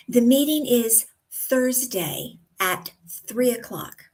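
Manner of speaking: tiny pauses before "Thursday" and before "three o'clock"; measured sentence, small breaks before "Thursday" and "three o'clock"; pauses before key details. Shown as a demonstration. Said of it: "microscopic pauses before".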